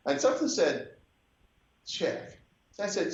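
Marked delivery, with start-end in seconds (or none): 1.8-2.4 raspy whispered voice, hushed and breathy; jazz musician impression. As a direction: imitate the musician in a hoarse whisper. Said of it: "You do a great imitation of a musician".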